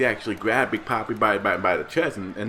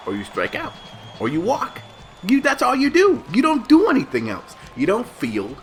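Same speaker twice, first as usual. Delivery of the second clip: much higher, shouted exasperation; loud rant; 12 semitones higher, 4 dB louder than usual. Real, not acted. Vlogger ranting at the designated hitter, shouting in frustration. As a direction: yell it in frustration.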